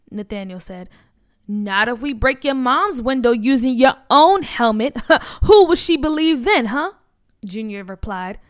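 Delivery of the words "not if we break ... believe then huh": bully sneering through a laugh, loud; mock him with a laugh in the voice; laughing threat. Bully to the boy, loud laughing jeer.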